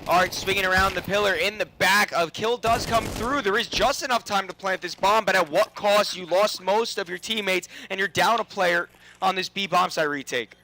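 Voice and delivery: rising excitement calling the action; esports caster. Real, not acted. Clutch round heating up.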